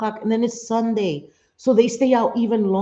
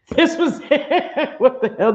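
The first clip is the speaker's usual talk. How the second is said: mock grand letdown; 9 semitones higher than usual. Mocking the anticlimactic pedestal visit.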